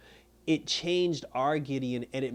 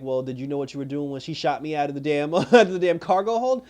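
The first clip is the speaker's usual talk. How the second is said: laughing retort; 6 dB louder than usual. Retold or imitated. Gary's angry retort, laughing.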